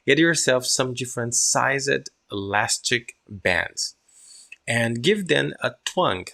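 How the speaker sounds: slow read-aloud; measured model reading. Shown as a demonstration. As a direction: lay it out slowly for learners. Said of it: "now listen my pronunciation".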